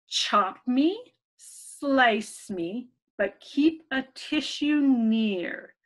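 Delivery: put-on slow, even reading to children; riddle reading. Teacher reading a riddle to children, slow and even. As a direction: read the riddle slowly for little ones.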